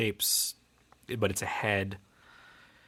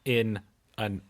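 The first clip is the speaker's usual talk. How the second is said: Irish accent; 4 dB louder than usual. Shown as a demonstration. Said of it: "say a singer's name in an Irish accent"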